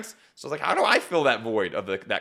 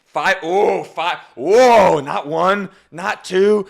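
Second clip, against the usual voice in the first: loud, higher gasps of amazement; mock audience reaction; 5 semitones higher, 11 dB louder, much slower than usual. Shown as a demonstration. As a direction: play the crowd reacting big. Coach acts audience reaction.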